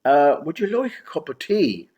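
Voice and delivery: light Irish lilt offering tea; a hint of an Irish accent, friendly; mild Irish accent, casual offer. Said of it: "in a distinctly Irish accent".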